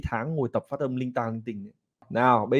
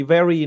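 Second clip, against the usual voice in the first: "very" with a loud punch on ve; stressed first syllable; 4 semitones higher, 6 dB louder than usual. Shown as a demonstration. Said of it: "nó là cái nhấn âm đấy".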